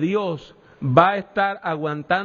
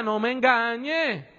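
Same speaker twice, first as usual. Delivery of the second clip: stern warning; 2 semitones higher than usual. Acted. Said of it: "en un tono que decía".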